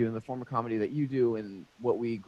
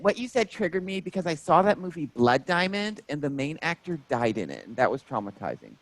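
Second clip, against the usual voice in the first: lightly voiced upset fan, a touch higher; a hint of the offended fan; mock fan voice; 5 semitones higher than usual. Fan explaining why the joke upset her, lightly imitated. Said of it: "she said".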